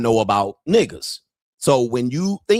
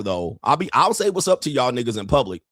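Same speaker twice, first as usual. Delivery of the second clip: usual speaking voice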